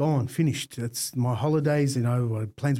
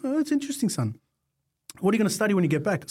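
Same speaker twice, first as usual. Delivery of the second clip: a raised, lightly voiced Aussie dad; amused Aussie dad; 7 semitones higher, faster than usual. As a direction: play the dad, amused and teasing. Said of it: "And Dad's very Aussie".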